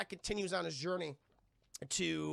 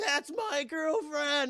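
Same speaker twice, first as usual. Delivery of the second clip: slow, high, loud mock wail; possessive bellow; 8 semitones higher, 5 dB louder, much slower than usual. Kong appears chasing Fay Wray, slow possessive mock bellow. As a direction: bellow it long, hammed-up and wounded. Kong charges after her.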